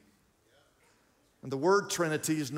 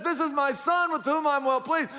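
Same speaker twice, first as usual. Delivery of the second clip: voice from heaven; 10 semitones higher, 3 dB louder than usual. Acted. Voice from heaven quoted again.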